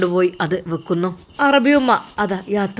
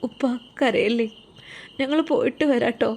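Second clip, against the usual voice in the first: tearful goodbye; 3 semitones higher than usual. Acted. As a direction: linger on each word like saying goodbye through tears. Daughter-in-law says goodbye.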